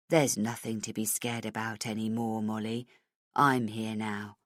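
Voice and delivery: put-on calm a scared child; police chief soothing the frightened girl.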